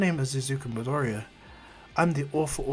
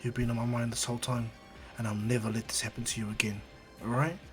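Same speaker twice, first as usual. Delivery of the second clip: softer, gentle comfort; tender; 2 semitones lower, 5 dB quieter than usual. Acted. Izuku to Eri, soft tender vow. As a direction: say it softly to a hurt child. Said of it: "he goes".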